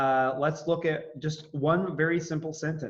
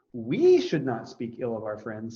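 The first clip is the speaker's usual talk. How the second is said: we said with extra weight, rest plain; stress on we; 2 semitones lower than usual. Shown as a demonstration. Teacher stressing we for the class. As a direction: lean on the word we. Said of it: "Now let's accent the words".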